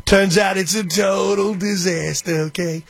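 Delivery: slow, drawn-out Trump-style delivery; lightly voiced Trump, slow and emphatic; Trump impression. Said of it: "I used to love when Trump would do that".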